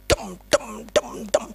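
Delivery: soft, muted "dem" beats; imitated falling rain. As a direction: patter out the rain softly. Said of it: "Pada sembuh kena air hujan".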